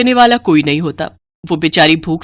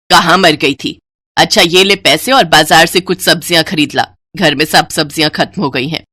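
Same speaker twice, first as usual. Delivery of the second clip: bossy mother-in-law; 3 semitones lower than usual. Acted. Mother-in-law orders elder bride.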